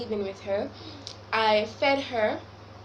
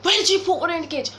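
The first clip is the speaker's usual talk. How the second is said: fast, loud, half-laughing, half-crying plea; upset, near tears; 5 semitones higher, 5 dB louder, faster than usual. Retold or imitated. Calling her mom after finding the hamster sick, fast and tearful. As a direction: blurt it out close to tears. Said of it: "I was so upset".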